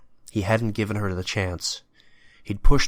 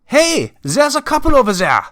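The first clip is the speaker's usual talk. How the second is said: high, loud call to others; yelled alert; 10 dB louder than usual. A narrator's reading. Someone spots the couple, yelling out. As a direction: yell out an alarm. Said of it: "someone yelled out".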